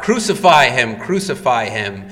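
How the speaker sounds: loud chant, then dropping; crowd crying out. Retold or imitated. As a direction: call it out like the mob. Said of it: "the crowd cries out".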